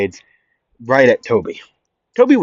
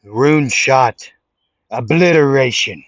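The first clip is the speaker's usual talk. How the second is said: jutsu shout; 3 semitones higher, 4 dB louder than usual. Acted. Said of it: "And Naruto would say".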